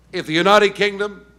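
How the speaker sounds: put-on tries an American accent, half-hearted; a stab at Obama's American voice; attempted American accent. Speaker imitates Obama at Heathrow, in a half-tried American accent. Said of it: "I can't quite do the accent, but I'm trying".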